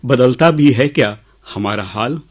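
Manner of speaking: measured, lilting recital with pauses; poem recitation. Acted. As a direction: recite verse to an audience, leaning on key words. Recites the refrain.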